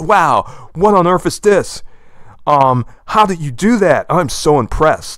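theatrical, put-on anime-style amazed voice. Explaining how anime voice actors put on a surprise voice. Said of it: "put on a surprise voice".

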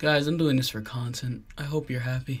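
sad-sounding voice. Getting makeup put on for content, speaking to viewers: sounding sad. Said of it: "you sound so sad".

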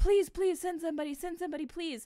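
put-on high, rushed, frantic panicked voice. Retelling a nine one one call, imitating panicked pleading. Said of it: "the rest of his panic".

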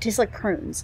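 ordinary delivery

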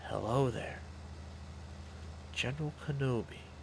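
whispered line. Mimicking an irritating asmr video, whispering a movie quote. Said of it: "I can't do the voices when I'm whispering".

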